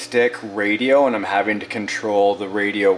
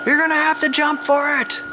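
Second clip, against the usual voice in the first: excited call out. Pretend. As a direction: call out to the little figure. Calling out to toy figure.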